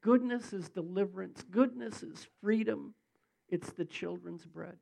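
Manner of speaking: emphatic, rising prayer in phrases; measured, forceful petition to God; real public prayer. Real, not acted. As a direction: pray fervently over a congregation. Continues prayer.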